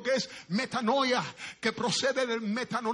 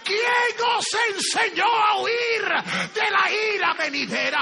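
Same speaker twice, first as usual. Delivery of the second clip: loud, high, slow prophet's rebuke; John the Baptist rebuking; 9 semitones higher, 7 dB louder, slower than usual. Retold or imitated. Baptist rebuking the Pharisees, loud and slow. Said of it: "les decía".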